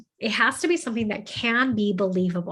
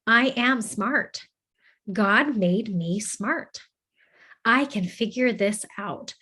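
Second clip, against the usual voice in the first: self-affirmation, deliberate; slower than usual. Shown as a demonstration. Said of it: "then you're going to say".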